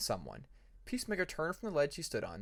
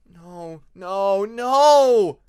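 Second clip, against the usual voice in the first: horrified no; 6 semitones higher, 16 dB louder, much slower than usual. Acted. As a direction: build from disbelief to a scream. Sees corpse, panics.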